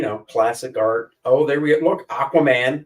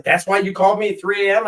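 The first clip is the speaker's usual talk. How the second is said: incredulous; 6 semitones higher, faster than usual. Retold or imitated. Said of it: "He's like".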